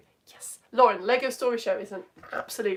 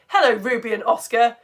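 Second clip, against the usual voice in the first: excited voice; 5 dB louder than usual. Real, not acted. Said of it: "See, I'm doing excited voice again".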